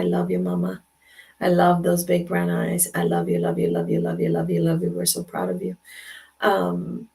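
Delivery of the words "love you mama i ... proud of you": much lower, intimate love words; tender message. Real, not acted. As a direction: speak lovingly to the granddaughter. Tender message to granddaughter Maddie.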